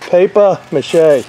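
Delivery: slow Boston "Paper mache", almost no R; Boston accent. Shown as a demonstration. Roofer repeats it for viewers in a Boston accent. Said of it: "That's how they say it in Boston".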